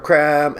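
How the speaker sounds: crème drawn out, pretentious "krem"; posh French crème. Shown as a demonstration. Mocking the coffee menu, pretentious French crème. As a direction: say "crème" like a snob ordering. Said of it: "crème is the French for cream".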